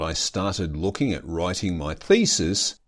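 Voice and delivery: "started" given a slight extra push; stress on started. Real, not acted. Podcaster recalling last episode's modest progress, stress on "started". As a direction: lean on the word "started". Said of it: "Emphasis on the word started".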